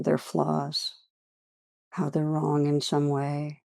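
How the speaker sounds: unhurried meditation guiding with long pauses; guided meditation. Real, not acted. Teacher leading listeners through a practice on judgment, guided meditation. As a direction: lead listeners gently inward, leaving long silences.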